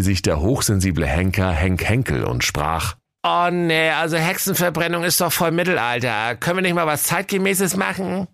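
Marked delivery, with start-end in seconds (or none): 3.2-8.3 gently objecting, a bit precious; timid executioner. Acted. Sensitive executioner objecting to the king, higher and timid.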